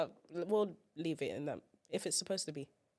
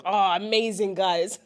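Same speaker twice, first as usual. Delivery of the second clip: laughing praise; 7 dB louder, slower than usual. Retold or imitated. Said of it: "I was".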